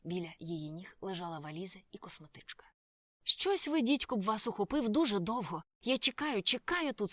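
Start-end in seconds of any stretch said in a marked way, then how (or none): 3.2-7.1 put-on impatient girl with a Californian twang, loud and high; Californian accent. A narrator's reading. Impatient girl to Karla, Californian accent. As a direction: snap at them in a Californian accent. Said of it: "сказала вона з каліфорнійським акцентом".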